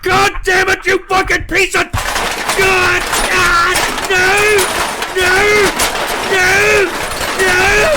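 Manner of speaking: high, loud screamed outburst; furious howls of disbelief; enraged screaming. Real, not acted. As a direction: scream in real outrage at the prank. Host erupts over spliced prank call.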